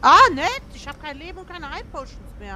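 panicking gamer. Real, not acted. Dying in fight, no potions.

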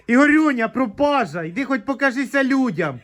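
high, lilting mock reproach; playful summons. Real, not acted. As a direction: call over a missing pal, playfully chiding. Teasingly calling Ігорюня over to viewers.

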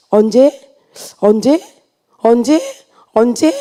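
"언제" rising each time, with pauses between; retold echoing "언제", lifted at the end; repeated questioning. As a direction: ask "언제" over and over as separate, insistent questions. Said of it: "이렇게 계속 되물었어요".

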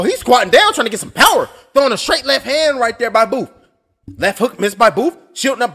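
steady ringside call of punches; live play-by-play. Acted. Streamer calling the boxing match on the screen, play-by-play. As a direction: call the fight blow by blow.

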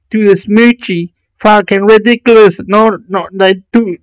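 high-pitched, exasperated complaint; indignant rant. Real, not acted. Indignant rant about telly coverage.

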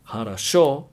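хорошо said "ha-ra-SHO", only the last O full; unstressed O as A. Shown as a demonstration. Teacher gives an example word, хорошо with A sounds. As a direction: say хорошо with both unstressed O's as "ah". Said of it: "the O is pronounced as an A".

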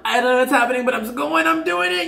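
giddy high voice. Pretend. Voicing viewer's giddy resolve.

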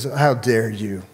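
slow, restrained rebuke; contained royal indignation, no shouting; indignant king. Acted. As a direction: rebuke him slowly and low-key. Acted king rebuking the servant.

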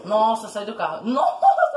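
laughing in disbelief. Real, not acted. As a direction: laugh through the words. Laughs at a kill.

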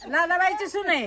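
said through a real laugh. Real, not acted. Teasing about Lalabai's daughter-in-law, laughing.

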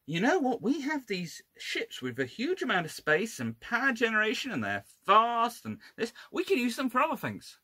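high-pitched voice of a navy having an idea; voicing the Royal Navy. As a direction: act out a bright idea, pitched well up. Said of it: "because the Royal Navy goes".

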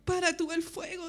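high, loud desperate pleading; recounted shouting. Retold or imitated. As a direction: cry out to the Lord as the house burns. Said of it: "Y empecé a gritar en ese momento". (gritando desesperada al Señor)

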